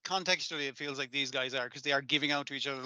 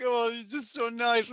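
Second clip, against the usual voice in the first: higher put-on voice, slowed; gushing like a smitten girl; mock swooning girl; 8 semitones higher, 4 dB louder, slower than usual. Voicing Marin swooning over him.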